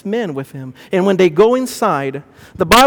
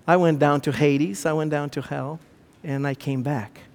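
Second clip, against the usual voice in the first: low, soft testimony; quiet solemn quote; 3 semitones lower, 5 dB quieter than usual. Acted. Jesus telling of his return from hell, quiet. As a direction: lower the voice and state it calmly.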